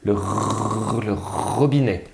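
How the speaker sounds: "robinet" with a long uvular r at the start; first sound drawn out. Shown as a demonstration. Teacher naming the matching alpha, "robinet" with sustained initial r. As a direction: stretch the r leading into "robinet". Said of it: "doit entendre r au début".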